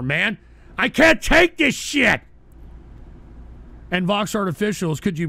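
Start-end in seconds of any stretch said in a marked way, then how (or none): 0.8-2.2 fed up. Real, not acted. Fed up, repeats it harder.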